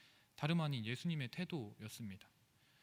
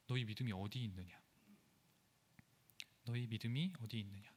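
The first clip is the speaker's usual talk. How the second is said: low, quiet rebuke to the disciples; Jesus rebuking gently; 6 semitones lower, 8 dB quieter than usual. Retold or imitated. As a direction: ask it softly and low, a mild reproach. (제자들을 꾸짖는 예수님의 낮고 조용한 목소리)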